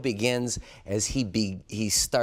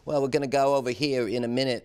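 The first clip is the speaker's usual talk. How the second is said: louder, quicker actor's line; stage character; 3 semitones higher, 4 dB louder, faster than usual. Acted. Director imitates an actor talking to another character, brisk stage character. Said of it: "an actor will be talking".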